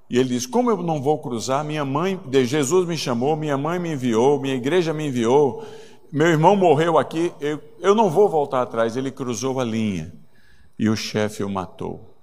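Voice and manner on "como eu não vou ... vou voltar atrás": defiant resolve. Retold or imitated. Acted defiant reply to the chief.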